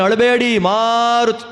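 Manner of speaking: drawn-out, coaxing plea to stop crying; storyteller's slow, coaxing call to babies; acted soothing of babies. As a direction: act out hushing wailing infants, stretching the name. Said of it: "ಅಳ್ತಾ ಇದೆ ಆ ನಲವತ್ತೊಂಬತ್ತು ಕೂಸುಗಳು".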